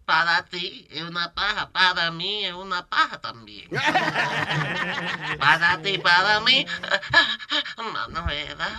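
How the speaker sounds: put-on light Castilian Spanish accent, lisped c and z; mock a famous singer speaking with a Spanish accent; playful Spain Spanish accent put on lightly. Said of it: "se le fue el acento".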